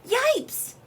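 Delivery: very high, loud yelp; frightened yell. A narrator's reading. Beaver ambushed by the rabbit, frightened yell. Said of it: "and he yelled".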